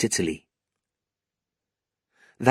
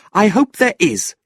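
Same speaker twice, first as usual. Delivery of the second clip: put-on a young niece burning with anger, voice pitched up high; angry young woman; 11 semitones higher, 6 dB louder than usual. Niece complaining to her uncle, high and indignant. Kate answers proudly.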